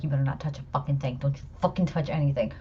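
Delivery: quick threatening under-breath order; stern warning. Retold or imitated. Mother warning her son in the covid screening area, fast and stern. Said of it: "I'm looking at him like".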